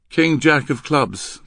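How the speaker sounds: high, slow, loud listing; girl reciting. Acted. Girl answering Henry's code, reciting. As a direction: recite the cards by rote. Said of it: "the girl recited".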